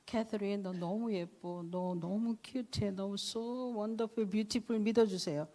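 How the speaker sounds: tender slow quote. Retold or imitated. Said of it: "학생들이 저한테 그런 거야".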